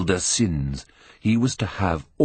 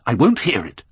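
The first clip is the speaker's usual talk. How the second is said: raised voice, breaking off sharply; a rising protest, louder on the last words; cried out; 5 semitones higher, 4 dB louder than usual. A narrator's reading. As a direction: cry out to cut Basil off. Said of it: "cried Dorian".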